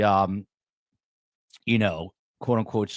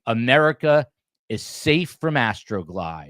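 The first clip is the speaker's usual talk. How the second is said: mildly mocking quote, raised on the first word; 4 dB louder than usual. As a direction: imitate mock-grand reassurance, lightly. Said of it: "he's mocking now".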